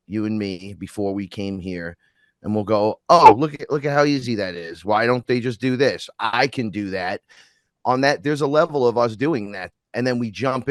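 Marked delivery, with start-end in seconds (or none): 3.1-7.2 acted eager onlooker, loud opening "Oh"; breezy overconfidence. Souls watching from the other side before coming here, breezy overconfidence. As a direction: play it as an easy boast.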